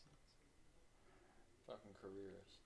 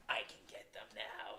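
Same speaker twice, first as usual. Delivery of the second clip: sneaky whisper; 3 dB louder, slower than usual. Retold or imitated. Hyena voiced sneaking up.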